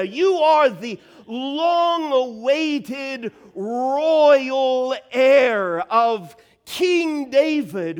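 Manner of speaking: slow, loud and emphatic, each You are pressed; fervent confession. Acted. Preacher acting out Peter's confession, slow and loud. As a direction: proclaim it like a man sure of the truth.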